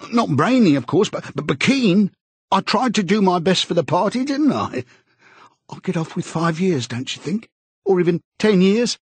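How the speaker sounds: high-pitched, stammering plea; eagerly appealing. A narrator's reading. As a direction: plead anxiously with an old chum, pitch climbing. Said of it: "began eagerly appealing to him".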